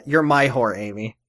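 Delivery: lightly done character voice in American accent; dropping softly on the name; a restrained imitation, no British accent; Ben. Shown as a demonstration. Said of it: "what Ben voice would sound like".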